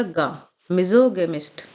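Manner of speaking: a lone "ga", then मिज़ोगेमिस्ट slowly; hard "ga" sound. Shown as a demonstration. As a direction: model मिज़ोगेमिस्ट with a hard g after isolating ga. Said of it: "यहाँ पे क्या sound आएगा". (पहले "गा", फिर मिज़ोगेमिस्ट में "ग" की आवाज़)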